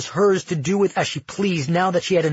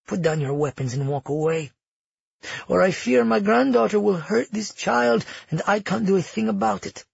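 lightly voiced, composed villain; threatening grandmother; 5 semitones higher than usual. Grandmother orders rescuers to disarm, veiled threat. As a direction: threaten them with mock helplessness.

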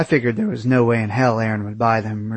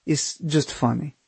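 amused; 3 semitones higher than usual. Acted. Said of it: "and she laughed at me".

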